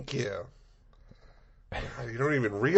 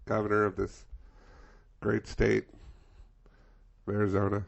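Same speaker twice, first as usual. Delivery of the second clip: grand, slow, louder speechifying; mock governor speech; 9 dB louder, slower than usual. Playing the governor addressing the state, pompous oratory. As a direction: orate like a pompous politician at a podium. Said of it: "Governor Doug Ducey".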